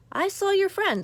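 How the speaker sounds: a hill troll blurting it out. Acted. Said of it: "said the troll".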